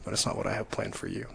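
a patient, gentle repeat; gentle voice of the Lord. Retold or imitated. The Lord patiently repeating his call to Josiah, soft and gentle. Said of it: "he kept on saying".

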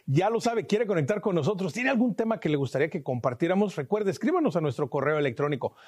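upbeat station promo voice, lively and bright; radio host signing off to the break; announcer read. Acted. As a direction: call the audience to stay tuned.

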